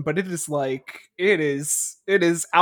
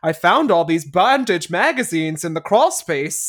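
raised, emphatic puzzled questions; wondering, guessing; 4 semitones higher, 4 dB louder than usual. Retold or imitated. Voicing a kid suspecting Dad is a killer, wondering. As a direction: puzzle it out with mock alarm. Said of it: "the movie has you guessing".

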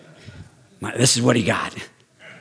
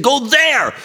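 God directing; 13 semitones higher, much slower than usual. Retold or imitated. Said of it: "he used me and said".

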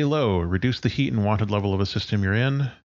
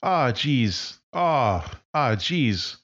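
higher, friendly voice of a friend; Sarah D; 7 semitones higher than usual. Acted. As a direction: answer the call like an old friend.

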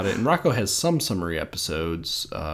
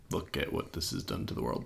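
mock whisper; 4 semitones lower, 11 dB quieter, faster than usual. Mock statement from the film.

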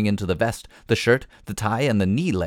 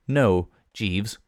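level tone. Acted. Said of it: "I said in a level tone".

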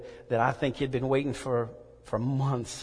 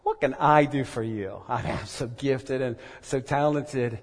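proud voice of unbelief. Retold or imitated. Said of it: "It says".

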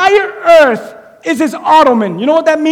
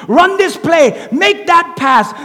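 coach's yell; 5 semitones higher, slower than usual. Retold or imitated. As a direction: bellow it like a sideline coach. Coach yelling at a player.

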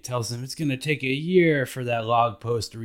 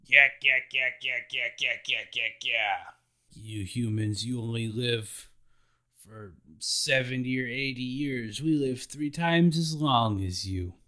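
a hint of a giant, babble then explaining; lightly voiced giant chattering then lecturing; 3 semitones higher than usual. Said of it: "And Doherty's like".

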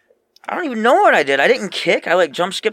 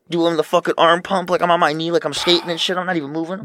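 excited; 5 semitones higher, 6 dB louder than usual. Real, not acted. Bragging about celebration.

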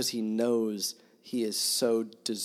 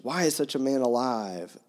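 read-aloud fury; 3 semitones higher, 5 dB louder than usual. Acted. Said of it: "growled in a muffled voice, now nearly beside himself with fury".

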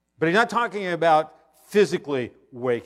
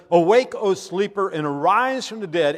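proclaiming loudly; 5 semitones higher, 6 dB louder than usual. Acted. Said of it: "It says".

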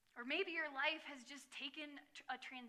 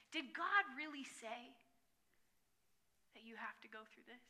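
tempter's whisper. Retold or imitated. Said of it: "a different kind of whisper".

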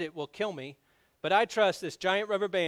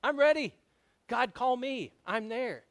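much higher, loud, thrilled shout; eager missionary; 8 semitones higher, 5 dB louder, slower than usual. Retold or imitated. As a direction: burst out like you can't wait to go. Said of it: "are like".

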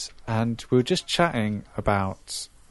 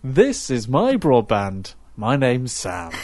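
slow, polished announcer read; radio presenter voice; much slower than usual. Retold or imitated. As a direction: say it like a pro radio host. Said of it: "did it, like, proper pro".

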